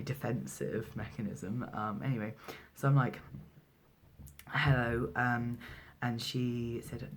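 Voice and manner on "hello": a hint of girly phone hello; feminine phone voice. Midwife picking up the phone, re-enacting a lightly feminine greeting. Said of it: "my phone voice, uh, is automatically very feminine".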